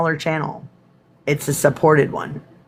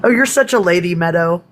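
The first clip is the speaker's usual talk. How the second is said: mock prim; 2 semitones higher than usual. Teasing herself about the burp.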